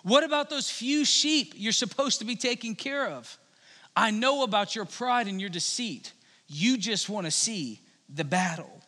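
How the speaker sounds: mildly scolding accusation; understated older-brother reproach; angry. Acted. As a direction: accuse him with a touch of anger. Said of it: "he was angry".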